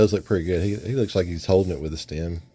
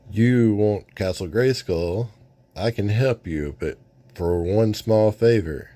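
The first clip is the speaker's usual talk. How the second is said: scheming villain. Acted. Villain Pighead's scheming speech.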